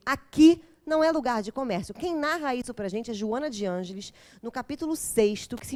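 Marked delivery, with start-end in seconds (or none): 0.1-1.9 stern rebuke. Retold or imitated. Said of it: "de maneira austera dizer".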